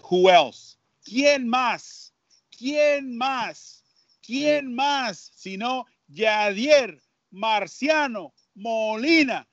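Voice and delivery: rising, building excited broadcast call; re-enacted home run call. Announcer recreating his famous call for the podcast host, building excitement. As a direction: shout the call like the big moment. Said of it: "what I said on air".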